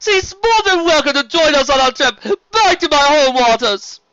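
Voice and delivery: high, loud, flamboyant serpent voice; sea serpent Stephen. Acted. Sea serpent inviting the sister along, grand and high.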